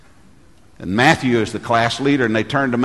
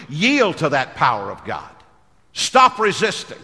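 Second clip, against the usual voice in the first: raised pitch, building each condition to a command; preaching exhortation; 5 semitones higher than usual. Real, not acted. Pastor urging believers to yield to the Spirit, preaching. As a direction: urge the congregation, landing hard on each command.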